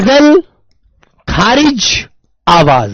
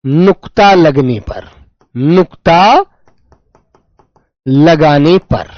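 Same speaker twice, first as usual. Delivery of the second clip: slow emphasis; 4 semitones lower, slower than usual. Shown as a demonstration. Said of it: "slow emphasis on rule".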